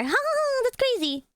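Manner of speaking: high laughing burst. Real, not acted. Laughing at the chat calling it ugly. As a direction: laugh through it.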